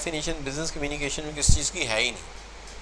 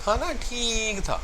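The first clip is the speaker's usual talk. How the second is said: 1 unimpressed; 6 semitones higher, 4 dB quieter than usual. Shown as a demonstration. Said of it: "دونوں میں فرق ہے".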